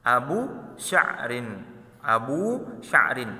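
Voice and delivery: abu sya'rin slightly slowed, stress on abu; Arabic word said slowly. Shown as a demonstration. Teacher models abu sya'rin for the class. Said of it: "rambutan dalam bahasa Arab".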